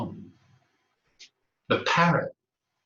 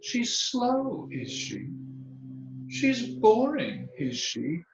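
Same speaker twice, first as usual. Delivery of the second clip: knowing parrot; 11 semitones higher, much slower than usual. Acted. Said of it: "and the parrot said".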